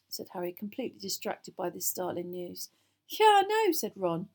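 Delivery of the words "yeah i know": high, loud, gleeful agreement; on the edge of laughing; amused. A narrator's reading. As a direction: burst out, tickled by the gossip. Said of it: "as he started to laugh".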